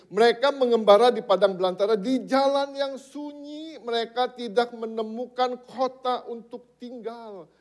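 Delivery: high, loud, drawn-out scripture proclamation; forceful preaching. Real, not acted. Preacher telling the congregation of wanderers without a city, forceful.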